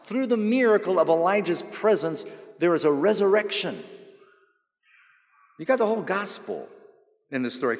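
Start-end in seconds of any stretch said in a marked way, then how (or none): 0.0-6.7 loud, driving preacher cadence; raised pulpit voice rising through the point; full-force preaching. Acted. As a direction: build the sermon to a climax.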